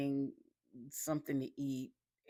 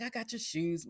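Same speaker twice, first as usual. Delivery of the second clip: pitched up high, lightly imitating Mike; a teasing, higher-voiced imitation of Mike; high mock Mike; 8 semitones higher than usual. Mike quoted, teasing Bunny.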